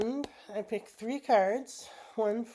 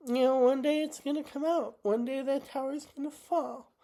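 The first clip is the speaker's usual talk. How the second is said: holding back tears, higher; emotional; 5 semitones higher than usual. Real, not acted. Telling viewers the truth will come out, emotional and higher. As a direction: voice pitched higher with real feeling. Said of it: "I'm just really emotional".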